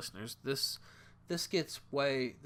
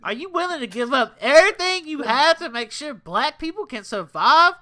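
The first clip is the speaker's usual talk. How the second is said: put-on black voice; 6 semitones higher, 11 dB louder than usual. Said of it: "I'm giving my black voice here".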